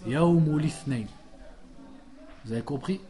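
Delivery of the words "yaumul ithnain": Yaumul ithnain slow and linked; slow correct model. Shown as a demonstration. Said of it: "On dit pas ithnain". (Yaumul ithnain lent et lié)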